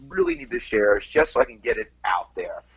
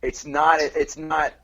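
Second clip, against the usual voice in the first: backhanded compliment; slower than usual. Retold or imitated. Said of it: "his comment was".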